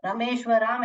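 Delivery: रमेश व राम with short "ra" and long "raam" at the end; रमेश व राम quickly, final राम lengthened; wrong pronunciation. Shown as a demonstration. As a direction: misread it as ra-mesh-va-RAAM. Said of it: "ऐसे नहीं पढ़ने का".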